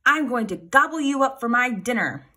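big storybook monster menace; troll's cry. A narrator's reading. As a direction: cry it out like a greedy troll pouncing. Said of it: "leapt out from under the bridge and cried".

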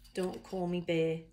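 attempted Australian accent, "bear" without the R. Reader announcing a koala book to friends, attempted Australian accent. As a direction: read the title as an amateur Australian. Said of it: "read this in an Australian accent".

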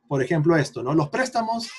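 ordinary talk, nothing marked

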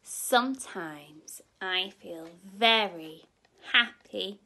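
lively, loud happy line. Acted. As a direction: lift the word happy with joy. Reading happy page with energy.

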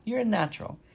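Loudwing tells the gosling he is a natural; Loudwing praising. Acted. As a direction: praise the gosling as the old goose. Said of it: "said Loudwing".

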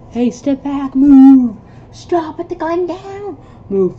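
commanding shouts. Acted. Guard ordering a man to drop the gun, loud commands. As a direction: force them back.

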